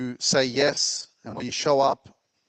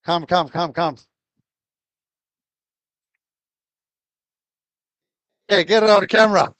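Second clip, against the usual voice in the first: excited urging; 5 semitones higher, 9 dB louder than usual. Real, not acted. Host urging guest to stage.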